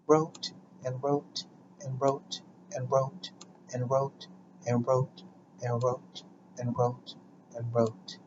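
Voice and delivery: low, soft incantatory repeat; monotone repetition. Acted. Poet writing till hands grew numb, low soft repetition. Spoken-word piece, droning word repetition.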